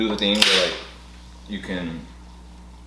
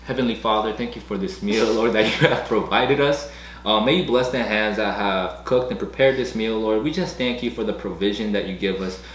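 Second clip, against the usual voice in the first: prayer. Real, not acted. Grace before the meal.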